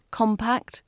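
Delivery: "compact" stressed on COM; first-syllable stress. Shown as a demonstration. Teacher repeating the word, first-syllable stress. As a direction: put the weight at the front of "compact". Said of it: "stressing the first part of that word".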